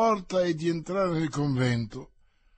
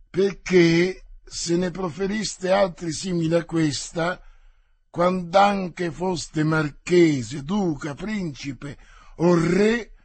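louder, hard threatening warning; angry threat; 4 dB louder than usual. Acted. D'Artagnan warns the insolent officer, angry and louder. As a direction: put the insolent officer in his place.

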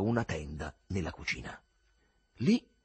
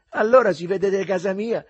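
chuckling; 9 semitones higher, 9 dB louder than usual. Acted. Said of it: "fece il Lenzetta ridacchiando".

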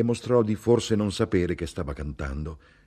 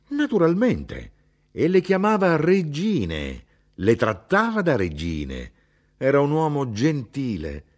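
put-on a heated old Sicilian mother correcting her son; mother's voice, indignant; 3 semitones higher than usual. Mother describes father's women.

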